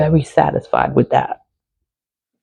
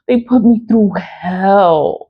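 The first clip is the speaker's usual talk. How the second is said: half-laughing, half-crying; bitter laugh through the words; 4 semitones higher, slower than usual. Real, not acted. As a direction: laugh it out while telling how bad it was. Venting about being mistreated.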